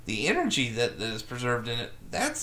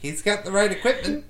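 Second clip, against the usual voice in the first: higher pushy Boston mother voice; Boston mom impression; 7 semitones higher, 3 dB louder than usual. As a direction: sell the fireman like a scheming mom. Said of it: "That's a pretty good Boston mom".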